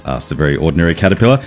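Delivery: plain reading voice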